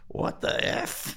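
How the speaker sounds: imitating a stunned heckler, whispered; audience heckle. Host retelling a heckler's stunned reaction, whispered. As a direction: breathe it out like a shocked audience member. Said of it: "someone in the audience was just like".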